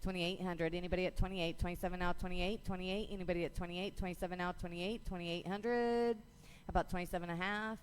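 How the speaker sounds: rapid rhythmic bid calling; auctioneer. Real, not acted. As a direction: auction chant, numbers rolling. Auction chant calling bids.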